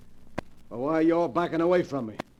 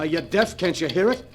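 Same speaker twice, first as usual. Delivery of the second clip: louder, rattled demand; agitated snap; 3 semitones higher, 6 dB louder than usual. Acted. Duke, rattled by the ticking, demands Joe hear it, louder. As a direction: demand it, unnerved.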